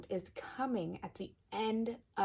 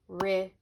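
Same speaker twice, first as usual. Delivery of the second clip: rhythm said louder, syllables marked; louder demo word; 6 dB louder than usual. Shown as a demonstration. Teacher models rhythm for the class, louder. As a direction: sound out rhythm clearly. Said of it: "so the Y is in the middle".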